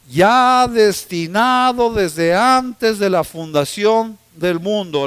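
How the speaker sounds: slow, measured Bible reading; scripture reading. Acted. Preacher reading First Peter to the congregation, slow and solemn. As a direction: read the verses slowly and solemnly.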